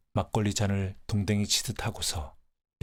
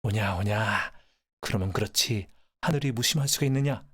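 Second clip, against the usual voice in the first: grandfather's exclamation. Acted. Grandfather takes the train for heaven's thunder, rising exclamation. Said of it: "조부께서는 그것을 천둥이라고 아셨던 모양입니다".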